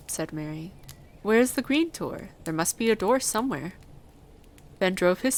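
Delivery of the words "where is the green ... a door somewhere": put-on higher-pitched eager girl; eager questioning. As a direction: press eagerly for an answer. Mary eagerly questions the gardener.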